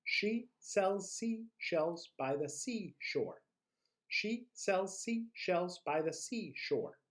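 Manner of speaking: slow, deliberate repetition of the twister; careful slow-paced recital; slow tongue twister. Shown as a demonstration. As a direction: keep it slow and clear.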